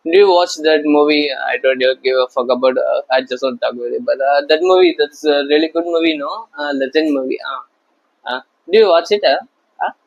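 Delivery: fast, babbling awkward chatter; mock an anxious guy filling silence; hammed-up nervous movie chatter; rambling nervous small talk. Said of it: "if fear of speaking nonsense, like".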